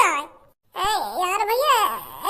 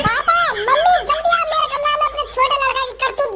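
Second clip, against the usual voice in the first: calling out; 3 semitones higher than usual. Acted. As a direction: shout for mum and dad to come now. Husband calls parents to room.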